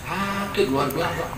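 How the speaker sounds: normal talking voice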